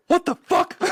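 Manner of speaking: very high, loud mock shriek; squealed expletive, played for laughs; retold cussing outburst. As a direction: imitate an astonished, excited outburst on the phone. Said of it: "Sam cussed at the girl on the phone".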